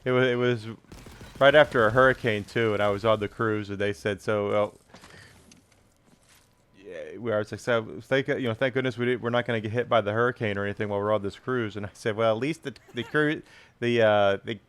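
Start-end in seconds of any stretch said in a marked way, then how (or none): 0.0-11.8 put-on thick Chicago Bears fan accent. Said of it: "this accent". 12.1-14.6 put-on thick Chicago Bears fan accent. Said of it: "this accent".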